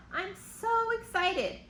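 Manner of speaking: high, bright burst of excitement; excited. Acted. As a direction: squeal it with joy. Lydia's excited letter line.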